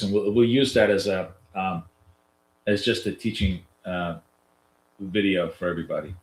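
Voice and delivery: talking through a nasal, stuffy voice; nasal voice from a blocked nose. Real, not acted. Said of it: "in my nasally voice".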